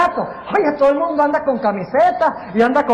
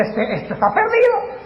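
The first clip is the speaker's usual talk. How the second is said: lightly imitated fan, pitched high; mock fan writing the game off; giving-up sports fan; 9 semitones higher than usual. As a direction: dismiss it in a high voice, as if the game is over.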